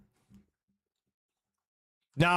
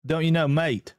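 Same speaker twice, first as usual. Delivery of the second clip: put-on Australian accent, lightly done; Aussie accent; 3 semitones higher than usual. Shown as a demonstration. Streamer showing off to chat, mock Aussie accent. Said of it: "my Aussie accent's good".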